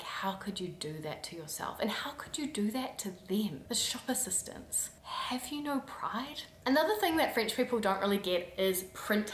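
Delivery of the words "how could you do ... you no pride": scandalised whisper. Retold or imitated. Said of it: "it would be like".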